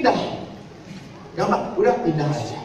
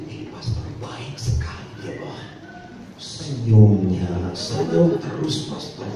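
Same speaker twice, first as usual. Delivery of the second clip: lightly voiced smitten woman; smitten young woman; slower than usual. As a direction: gush about him like a lovestruck girl. Infatuated woman praising her fiance.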